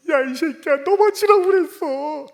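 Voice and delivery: 높고 크게 터뜨리는 욕설 고함; 화난 아버지처럼 버럭 질러; mock angry yell. 아브라함이 화내는 농담 연기. (아들에게 버럭 소리치는 아버지 흉내)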